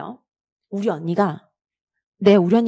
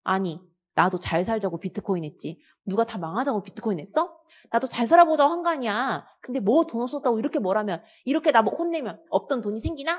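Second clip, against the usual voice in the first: irritated wife; 3 semitones higher than usual. Acted. Annoyed wife rants about husband.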